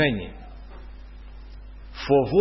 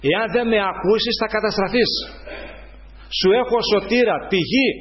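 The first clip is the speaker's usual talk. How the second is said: raised, forceful sermon voice; preaching; 3 semitones higher than usual. Acted. Preacher warning the congregation, in full preaching voice.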